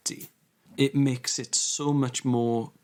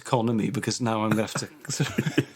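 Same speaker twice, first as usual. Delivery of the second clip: winded after running up steps; out of breath. Real, not acted. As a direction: talk while catching your breath. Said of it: "I'm out of breath 'cause I've run up the steps".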